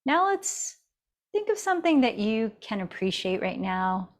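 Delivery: calm, even yoga-teacher guidance with long pauses; guided meditation. Real, not acted. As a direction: guide them gently inward, leaving space between phrases. Leads a seated meditation.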